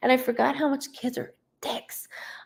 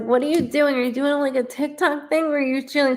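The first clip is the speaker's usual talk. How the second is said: retold mom question; 6 semitones higher, faster than usual. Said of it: "'Cause I'm like".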